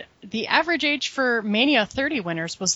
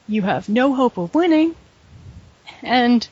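voicemail voice promo; 2 semitones higher than usual. Pretend. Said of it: "soothing voicemail voice".

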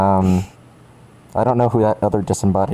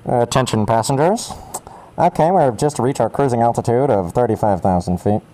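pilot voice. Pretend. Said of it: "I'll do a pilot voice".

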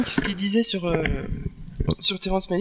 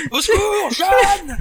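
high, loud hammed-up call for help; mock cry for help; 13 semitones higher, 5 dB louder, much slower than usual. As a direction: shriek for help like a damsel. Joke scene, Joan of Arc cry. (appel au secours théâtral)

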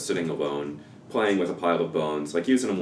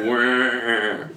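put-on child crying; 6 semitones higher, 5 dB louder than usual. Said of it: "crying of a child".

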